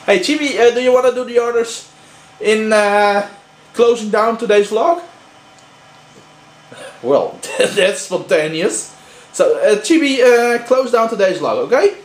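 high, sweet voice for a pet; high pet talk. Real, not acted. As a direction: coo at the dog. Asking pet to close vlog.

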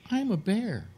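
high silly bear voice; talking bear. Acted. Bear explains himself to hunter, high silly voice. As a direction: announce it like a goofy cartoon bear.

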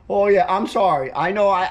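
talking while chewing; mouth full. Real, not acted. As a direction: speak round a mouthful of food. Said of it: "talk with my mouth full".

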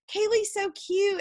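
gushing. Retold or imitated. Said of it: "She's like".

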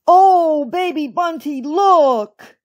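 high, startled call; crying out. A narrator's reading. Old rabbit to skating partner, high startled cry. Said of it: "he cried".

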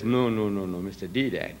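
ordinary delivery

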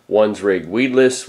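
normal talking voice

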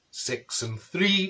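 slow, drawn-out number call; deliberate bingo calling; bingo caller. Acted. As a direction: stretch each number out for the hall.

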